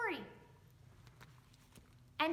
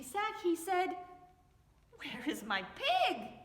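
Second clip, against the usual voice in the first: lively read-aloud with voices for each animal and person; story reading for children. A narrator's reading. Teacher reading a picture book to young children, lively storytelling. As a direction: read it to little ones, bright and playful.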